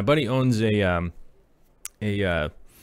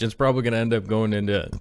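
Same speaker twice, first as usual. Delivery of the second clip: burping; faster than usual. Real, not acted. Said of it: "I'm burping".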